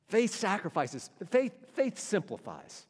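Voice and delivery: slow, deliberate "Faith simplifies"; slow emphatic. Acted. Preacher driving home the point, slow and deliberate. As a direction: land each word slowly. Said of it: "sermon emphatic slow point".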